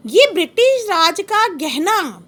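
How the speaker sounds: slow, measured reading of verse; poem recitation. Shown as a demonstration. Teacher reciting the poem to the class, slow and measured. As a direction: savour each word like a recital. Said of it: "कवि कह रहा है".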